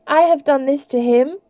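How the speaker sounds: high, distressed admission; shaking, hardly speaking. A narrator's reading. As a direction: confess it in shock. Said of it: "shaking so hard she could hardly speak".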